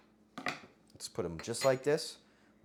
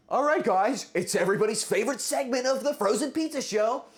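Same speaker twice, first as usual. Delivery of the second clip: loud, high hyped host intro; game show host; 10 semitones higher, 8 dB louder than usual. Acted. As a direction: sell the segment like a TV announcer. Announces game show segment.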